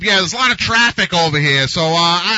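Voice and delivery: high, loud phone chatter; loud cell phone talker. Retold or imitated. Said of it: "the guy on the bus who has to talk loud on his cell phone".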